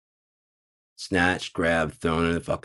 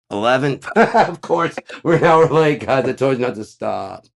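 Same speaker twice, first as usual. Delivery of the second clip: mock embarrassed agent; 6 semitones higher, 7 dB louder than usual. Agent embarrassed, laughing, late.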